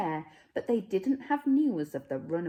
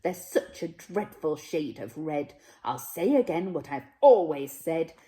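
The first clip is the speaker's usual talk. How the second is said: louder, firm grandmother scolding; speaking her mind; 5 dB louder than usual. Acted. Grandmother forbidding play with the Smeds, louder and firm. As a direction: lay down the law to the child. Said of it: "this is how she spoke her mind".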